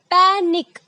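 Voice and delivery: पैनिक said clearly with a short ई in the last syllable. Shown as a demonstration. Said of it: "ई की sound आ रही है". (पैनिक में ई की आवाज़)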